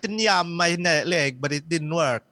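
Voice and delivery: mock Jamaican accent. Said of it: "saying they're white Jamaicans".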